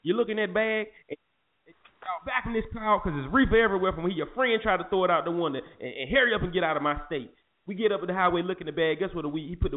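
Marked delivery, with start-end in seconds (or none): 0.0-7.3 lightly voiced country cop, slightly higher; a hint of the trooper sending them off; imitating the cop. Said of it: "this is how he was talking".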